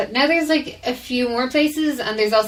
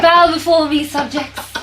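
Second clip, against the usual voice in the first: booming demon lord; 7 semitones higher, 8 dB louder, slower than usual. Pretend. Mock ruler addressing the audience.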